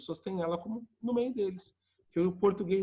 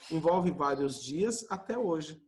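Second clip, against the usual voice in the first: slow repeat; slower than usual. Shown as a demonstration. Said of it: "Isso, exatamente".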